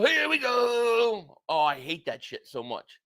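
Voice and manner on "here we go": slow, drawn-out mock announcer call; announcer catchphrase. Streamer answering a chat request, slow mock announcer call. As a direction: stretch it out like the broadcast call. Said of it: "can I get a "here we go"?".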